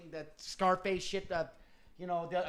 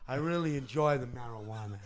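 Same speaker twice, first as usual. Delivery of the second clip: Robert Anton Wilson impression; 4 semitones lower, 5 dB louder than usual. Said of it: "do the slow idle pan".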